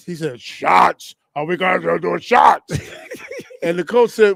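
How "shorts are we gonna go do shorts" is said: imitated Massachusetts accent, "shorts" said "shots"; mock Massachusetts accent, lightly voiced; teammate with a deep singer-like voice. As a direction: do a teammate from Lynn with dropped R's. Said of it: "he sounded like Barry White".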